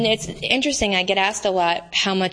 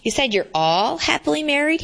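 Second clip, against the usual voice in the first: lightly voiced interviewer; 6 semitones higher than usual. Interviewer Matt questions her.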